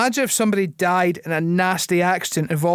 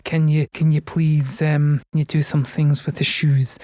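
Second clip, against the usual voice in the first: creepy voice; 4 semitones lower than usual. Pretend. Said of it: "some creep is asking her".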